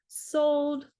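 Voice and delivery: bright, quick snap of enthusiasm; eager sold. Real, not acted. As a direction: react like you're instantly convinced. Eager reaction to flower tip.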